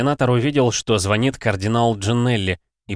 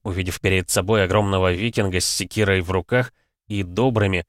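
usual speaking voice

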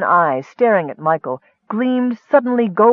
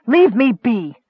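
higher-pitched, mildly angry protest; angry rebuff; 4 semitones higher, slower than usual. A narrator's reading. Nicole rebuffing Michael's plea, angry. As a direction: push him away with the voice.

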